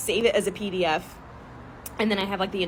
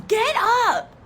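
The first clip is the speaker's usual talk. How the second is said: scolding grandma; 10 semitones higher than usual. Retold or imitated. Grandmother scolding kneeling husband, high exasperated scold. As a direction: snap at him to get up.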